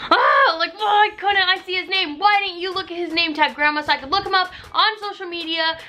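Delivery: high, crying-out mock wail at grandma; frustrated whine. Complaining to grandma about the name tag, high wailing whine. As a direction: wail it like a teen tragedy.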